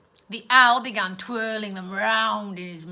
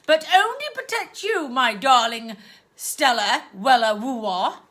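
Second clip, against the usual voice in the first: higher, louder, syrupy and sweet; aunt sweet-talking her niece; composed aunt; 5 semitones higher, 6 dB louder than usual. Acted. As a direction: smother her with false sweetness. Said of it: "quickly composed herself".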